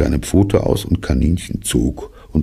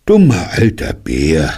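liebevoll; 3 semitones higher, 4 dB louder than usual. Acted. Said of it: "mit so liebevoller Stimme".

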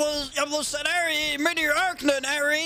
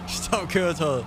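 mock cop command; 11 semitones lower, much slower than usual. Mocking the cop's command.

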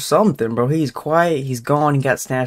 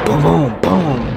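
mock gunshots; slower than usual. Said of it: "That sound like four shots to me".

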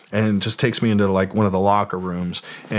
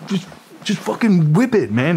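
high egging-on voice; imitating Tommy; 8 semitones higher than usual. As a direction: urge him like a wild rocker. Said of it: "then he's like".

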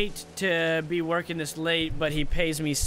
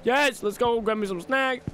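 upbeat call; 5 semitones higher than usual. Shown as a demonstration. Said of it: "Give me, yeah, give me some snacks".

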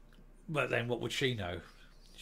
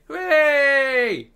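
shrill high mock hooray; sarcastic hooray, much higher and louder; mock cheer; 11 semitones higher, 13 dB louder than usual. Mocking her leaving cheer.

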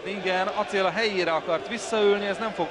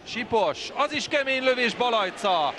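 excited commentary; 5 semitones higher than usual. Real, not acted. Shot and save, live.

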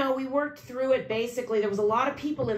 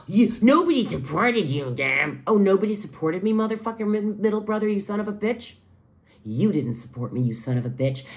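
furious cursing; 3 semitones lower than usual. Real, not acted. Cursing out the middle brother.

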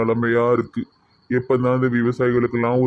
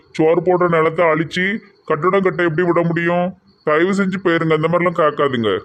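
slightly raised, protesting plea; indignant plea; 3 semitones higher than usual. Acted. Farmer turns away a land buyer, indignant plea. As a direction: plead firmly to be left alone.

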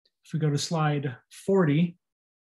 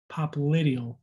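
Popliteal with the emphasis on the I, pop-lit-EE-al; stress on the I. Shown as a demonstration. Teacher modelling Popliteal for students, emphasis on the I. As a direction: lean on the I in Popliteal. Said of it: "Emphasis on the I".

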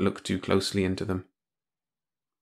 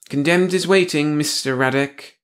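sour, pointed and much higher; acid; 6 semitones higher, 4 dB louder than usual. Acted. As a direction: bite the words with contempt. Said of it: "the narrow-faced man said acidly".

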